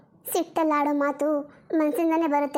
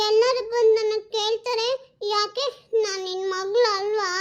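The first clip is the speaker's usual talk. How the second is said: a hint of a worried young daughter, a bit higher; lightly voiced little girl; 4 semitones higher than usual. Daughter begs her mother not to give her away, lightly childlike. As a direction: play the small girl pleading with her mum.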